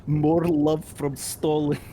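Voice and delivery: put-on Russian accent. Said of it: "thick Russian accent".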